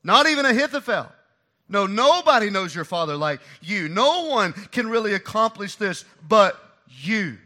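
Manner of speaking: flattering Hushai. Retold or imitated. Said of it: "through flattery of language, Hushai is communicating".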